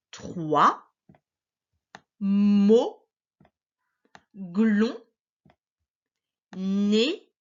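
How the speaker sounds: TROIS, MO, GLON, NÉ each drawn out and rising at the end; stretched syllables for a learner to follow, TROIS to NÉ; read-along syllables. Shown as a demonstration. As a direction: model each syllable slowly with a long pause after it. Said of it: "lire en même temps que moi".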